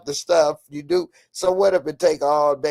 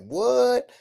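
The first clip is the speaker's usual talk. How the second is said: shocked what; 8 semitones higher than usual. Pretend. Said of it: "and you be like".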